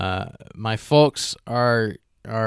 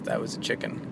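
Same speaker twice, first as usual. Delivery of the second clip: turkey impression; 3 semitones lower, 9 dB quieter, faster than usual. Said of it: "That's my turkey impression".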